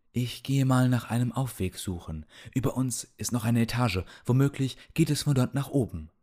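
lightly voiced old healer; old man voice, matter-of-fact.

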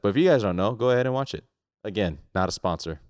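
lightly ad-like plug; a touch of promo read, tossing off the disclaimer; commercial ad. Real, not acted. Podcaster plugging a Netflix show to listeners, mild commercial-ad voice. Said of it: "Why do I sound like a damn commercial ad?".

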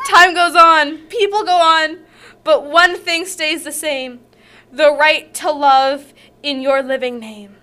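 earnest poem recital; dramatic poem read. Acted. Reads poem aloud.

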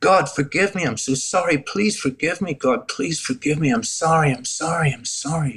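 remorseful begging, relived without full sobbing; imitating a desperate, repetitive apology; retold repeated pleading. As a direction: plead for forgiveness over and over, pitch lifted. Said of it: "saying over and over again".

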